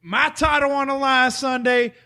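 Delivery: hyped wrestling promo voice. Pretend. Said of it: "Y'all gonna make me cut a promo today".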